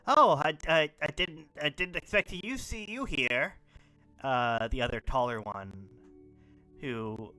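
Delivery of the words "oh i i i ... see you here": loud, higher-pitched, stammering surprise; awkward fumbling greeting; flustered. Acted. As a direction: stumble over it as if caught out. GM acts flustered Tuff caught out.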